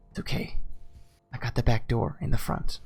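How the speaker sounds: hushed, breathy whisper as Aurelia; soft whisper. Acted. Aurelia tells the player to go explore, soft whisper. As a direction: whisper it softly but urge them on. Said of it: "softly whisper to you".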